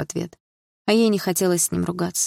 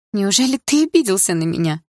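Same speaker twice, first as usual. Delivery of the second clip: wry smile; 3 semitones higher, 4 dB louder than usual. Acted. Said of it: "криво улыбнулась девушка".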